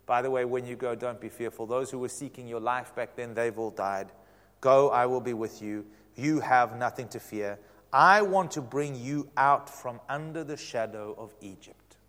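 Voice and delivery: calm Moses' fears in a low voice; reassuring. Acted. God reassures a fearful Moses.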